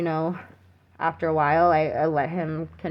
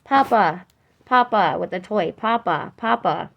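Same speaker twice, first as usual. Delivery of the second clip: put-on a light toddler voice calling papa, higher and louder; imitating toddler; 3 semitones higher, 4 dB louder than usual. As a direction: mimic a little child calling her papa. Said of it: "Should be going like this".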